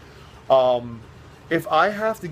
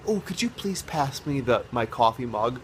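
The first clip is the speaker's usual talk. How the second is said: polite request; 2 semitones lower, 4 dB quieter than usual. Retold or imitated. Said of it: "instead of saying".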